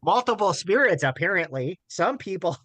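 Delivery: high, breaking into laughter mid-read; laughing through it. Real, not acted. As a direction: try to read it but keep cracking up. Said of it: "I can't do this with a straight face".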